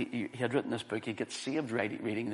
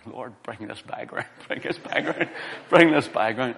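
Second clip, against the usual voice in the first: repeated plea building from usual voice to loud, laughing; mock urgent prayer; 8 dB louder than usual. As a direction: re-enact a desperate little prayer, growing louder. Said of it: "So I was praying".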